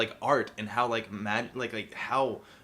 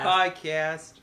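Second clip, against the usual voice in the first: Adam Sandler impression; 2 semitones higher than usual. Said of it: "Adam Sandler impressions now?".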